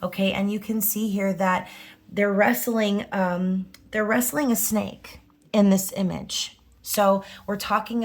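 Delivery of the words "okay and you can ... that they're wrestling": usual speaking voice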